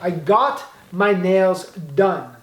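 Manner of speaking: very slow, clear teacher model line; slow model sentence. Shown as a demonstration. Teacher modelling the English for Brazilian learners, very slow and clear. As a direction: spell it out slowly for the students. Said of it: "no particípio".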